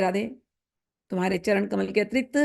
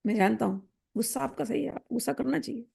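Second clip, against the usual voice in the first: soft coaxing; 4 semitones higher, 6 dB quieter, faster than usual. Acted. Coaxing an angry beloved.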